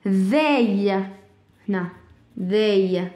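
"They" said with a voiced th; teacher sounding out the word; model pronunciation. Shown as a demonstration. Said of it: "according to the pronunciation".

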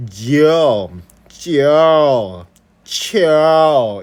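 저, 저, 쳐 drawn out as ji-eo, jji-eo, chi-eo; slow, exaggerated y-glide in 저, 저, 쳐; over-literal diphthong. Shown as a demonstration. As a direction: stretch each of 저, 저, 쳐 with an audible y-glide, loudly. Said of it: "그렇게 발음하는 사람 없더라".

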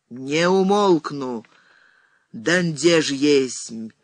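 slow, drawn-out solemn proclamation; prophesying. A narrator's reading. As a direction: declaim like a prophetess, unhurried. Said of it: "вещала старица".

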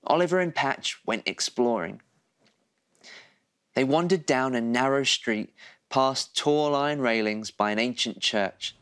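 gentle, lively bedtime story read; cosy storyteller voice for a little one; reading to children. A narrator's reading.

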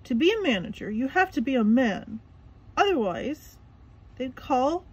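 Mister Krabs explaining. A narrator's reading.

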